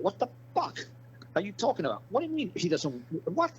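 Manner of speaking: high-pitched imitated outburst; the cop's disbelieving yelp; mock cop outrage. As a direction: squeal it like the furious cop. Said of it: "That cop got so mad".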